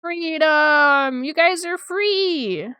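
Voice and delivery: loud, high celebratory shout; joyful yell of freedom; excited cheer. Real, not acted. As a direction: throw your arms up and cheer. Celebrating finishing commission.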